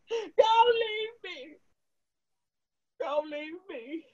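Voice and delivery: sobbing, calling Paula; crying. Acted. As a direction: cry out her name through tears. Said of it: "My Night starts crying".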